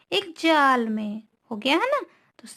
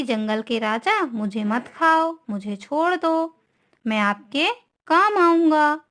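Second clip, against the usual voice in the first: mildly acted begging, higher towards the end; pleading mouse; 3 semitones higher than usual. Frightened mouse bargains with the lion, mildly pleading. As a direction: plead lightly, as a teacher voicing a mouse. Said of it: "उससे pray करने लगा".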